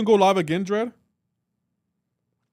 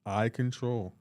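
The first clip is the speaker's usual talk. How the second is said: menacing overlord boast, hammed-up; mock dramatic villain; 5 semitones lower, slower than usual. Streamer playing villain to Queen Misty, low menacing boast.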